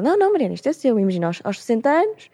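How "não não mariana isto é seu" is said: higher reassuring bank manager voice; Ana, higher, insisting it's hers; lightly voiced bank manager. Speaker quoting bank manager Ana reassuring her, higher pitched. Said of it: "E ela".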